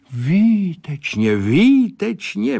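excited exclamation climbing up; calling out delighted. Acted. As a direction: shout your delight up high. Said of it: "volal Sládek".

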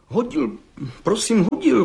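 high, halting stammer of a scared lad; stammering young bricklayer. Acted. Young bricklayer stammering before the judge. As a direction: stutter it out nervously. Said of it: "koktal mladý cihlář".

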